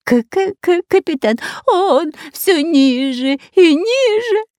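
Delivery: high, slow, stuttering whine; whimpering stammer. A narrator's reading. The long-nosed robber whimpers to the captain, stammering. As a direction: whine in panic at the ceiling. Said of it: "хныкал длинноносый Пулькин".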